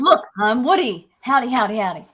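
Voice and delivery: low, slow mock-cowboy imitation; shark posing as Woody. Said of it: "Yeah, he's like".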